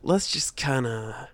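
lightly voiced slow singer drawl; impression of a singer. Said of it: "his best impersonation of a singer".

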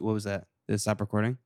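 normal talking voice

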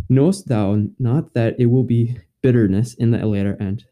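slow, solemn scripture reading; old english. Acted. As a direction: read it like an old King James passage. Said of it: "I will read in Old English".

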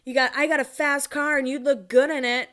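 lightly voiced cocky flirt; mock pickup line.

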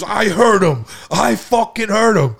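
high, loud retold protest; drawn-out, high-pitched shouted claim; imitated angry insistence. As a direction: insist furiously, mimicking a worked-up friend. Retelling friend's angry insistence.

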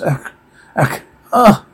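series of short, mock "ah" cries; acted cries of pain. Reader voices repeated blows, short mock pain cries. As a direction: react to each blow with a brief cry.

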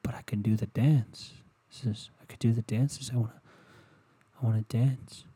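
mild pouty defiance; a touch of childish whining; defiant whine. Retold or imitated. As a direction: sulk like a kid denied. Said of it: "get all defiant and go".

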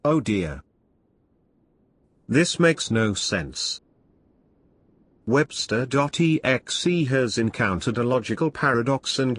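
a hint of a worried computer; malfunctioning computer voice; robot voice. Computer Webster.exe speaks.

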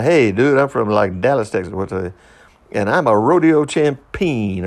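lightly voiced breezy American student; easy, breezy American. American student introducing himself to class, easy and breezy. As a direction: toss it off as an easygoing introduction. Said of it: "this is pretty easy, breezy".

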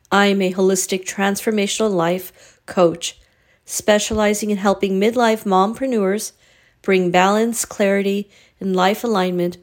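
even, measured host announcement; scripted promo read. Acted. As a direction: read the coaching invitation in neat, paused phrases. Scripted host welcome and coaching promo.

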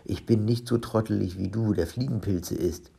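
a touch of huffy protest; understated offended comeback; mildly indignant. Acted. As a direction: retort with light indignation. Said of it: "rief Olli entrüstet".

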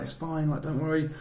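lightly acted comforting; calming dad. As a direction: play a dad calming a crying child. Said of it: "trying to calm her down".

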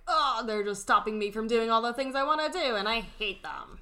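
put-on whiny teen grievance, rising then falling; lightly hammed-up adolescent groan; mock teenage whine. Voicing a resentful teenager stereotype.

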